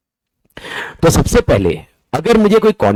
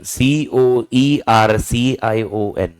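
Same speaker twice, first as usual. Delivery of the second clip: spelling it out; 2 semitones lower, much slower than usual. Shown as a demonstration. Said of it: "कोर्शन".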